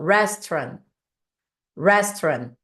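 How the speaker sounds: "Restaurant" with a curled-tongue English R; R enrolado do inglês. Shown as a demonstration. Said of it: "a gente meio que enrola a língua". ("Restaurant" com o R inglês, língua enrolada)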